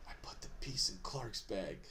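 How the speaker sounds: low, hushed confiding voice; quiet imitation of a secret admission; Earn. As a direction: lean over and confide it softly. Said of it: "you get the lean over from Earn".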